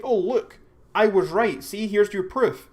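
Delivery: high, loud mock gloating; mock triumph. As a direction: act out someone proudly brandishing proof. Imagined sharer showing off proof.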